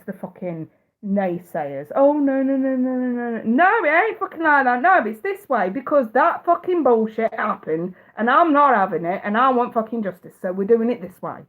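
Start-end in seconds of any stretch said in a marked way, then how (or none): 2.0-11.4 mock-indignant, insistent refusal; defiant client attitude. Client voiced telling lawyers how it is, defiant. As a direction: act out the fed-up client laying down the law. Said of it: "have that kind of attitude with your lawyers".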